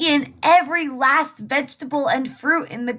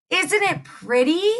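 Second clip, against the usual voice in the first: put-on higher, a touch of a vain little girl; girly voice; 6 semitones higher than usual. Little Red showing off her cape to wolf, girly. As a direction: sing it like a proud girl.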